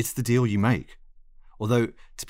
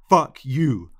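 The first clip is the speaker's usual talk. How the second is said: loud, higher, angry snap; snapped; 5 semitones higher, 6 dB louder than usual. A narrator's reading. Lionel cuts off the pleading narrator, snapping angrily. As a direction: lash out sharply. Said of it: "Lionel snapped".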